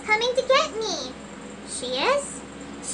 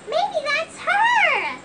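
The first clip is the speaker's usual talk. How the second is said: hopeful excitement; 8 semitones higher, 3 dB louder, much slower than usual. Acted. Hopeful that Roxanne arrives.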